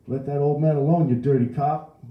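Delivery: high, loud woman's yell; outraged shrieking bystander; screamed. A narrator's reading. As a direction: scream at the cop from the crowd. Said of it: "a woman screamed".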